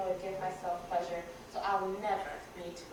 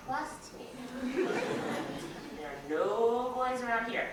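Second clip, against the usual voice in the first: louder knowing promise broken by laughter; amused secretary reassuring mom with laughter; laughing reassurance; 4 semitones higher, 4 dB louder than usual. Retold or imitated. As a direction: wink it at the mother with a laugh. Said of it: "the lady tells her".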